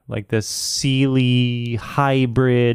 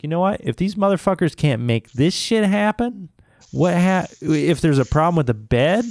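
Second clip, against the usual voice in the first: higher-pitched exasperated rant, not shouted; retold anger; 5 semitones higher than usual. Customer venting about the mattress store, retold exasperation. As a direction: re-enact being fed up, voice raised in pitch. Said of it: "I was pissed".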